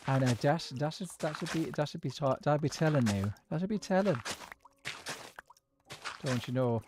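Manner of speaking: attempted Irish country accent; lightly put-on rural Irish accent; culchie Irish accent. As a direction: have a faltering go at culchie Irish. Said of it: "as a culture Irish".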